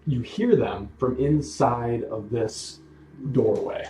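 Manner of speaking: unhurried storytelling, broken into phrases; game master narration. Acted. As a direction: lay out each detail for the players, with pauses. Game master sets scene.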